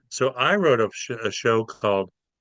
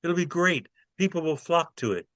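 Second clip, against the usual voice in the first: eager reassurance; 5 semitones higher than usual. Retold or imitated. Nightclub man pleading with boss.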